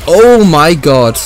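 loud, drawn-out surprise; shocked exclamation. Real, not acted. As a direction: stretch it out in shock. Sudden shock mid-explanation.

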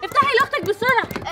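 urgent scolding command; stern order. Acted. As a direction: order your daughter sharply to obey. Mother orders daughter to open car. (أمر حازم من أم غاضبة)

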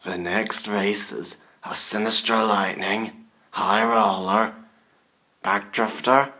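spooky put-on announcer voice; scary Halloween voice. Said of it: "I'm using my scary Halloween voice".

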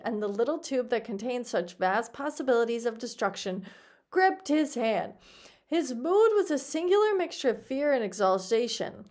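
expressive audiobook reading; story narration. A narrator's reading. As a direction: read it out as a lively tale. Reads the story aloud.

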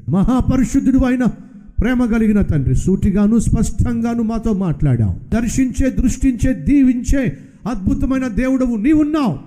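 preacher praying to the loving Father; leading prayer. Acted. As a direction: pray aloud for the congregation. Leads a closing prayer.

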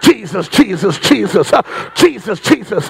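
imitating altar seekers picking up speed. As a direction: fire the name off in quick succession. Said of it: "They call him faster".

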